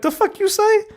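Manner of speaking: high-pitched indignant challenge; flipped-switch anger. Retold or imitated. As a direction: retell it as a sudden, high-voiced confrontation. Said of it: "I flipped the switch".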